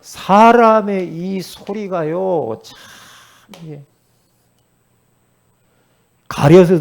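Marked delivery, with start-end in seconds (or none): none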